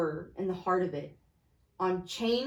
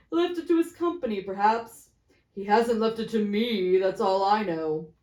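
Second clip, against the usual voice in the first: joking fat merchant; 5 dB louder than usual. Acted. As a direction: make the room laugh. Fat man jesting.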